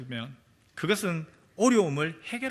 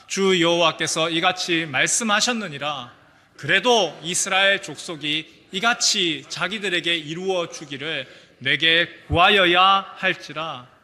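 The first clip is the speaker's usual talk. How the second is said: unison scripture reading; 5 dB louder than usual. Shown as a demonstration. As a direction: read scripture aloud together. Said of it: "우리 같이 한번 읽겠습니다".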